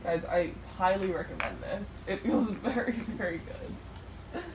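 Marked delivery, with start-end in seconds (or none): 2.1-4.4 words broken by a laugh, fading. Real, not acted. Laughs while praising the treatment.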